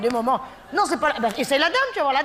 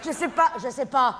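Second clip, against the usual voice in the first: exasperated shout. Real, not acted. Exasperated parent shouting at the kid's camel questions. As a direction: cut off the questions. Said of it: "J'en ai marre, moi".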